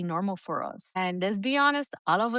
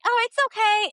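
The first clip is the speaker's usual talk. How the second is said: meek brush-off; 14 semitones higher, 5 dB louder than usual. Retold or imitated. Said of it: "'Cause if we're like".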